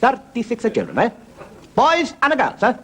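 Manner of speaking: high mock Italian accent; Holy Father. Pope asking about the children, mock Italian accent. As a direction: quiz her in hammed-up Italian. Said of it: "That's the way he talks".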